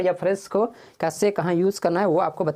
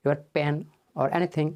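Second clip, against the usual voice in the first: courteous asking, ending slow; polite request; much slower than usual. Shown as a demonstration. Teacher showing the right way to ask, politely. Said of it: "कहना है, क्या कहना है?".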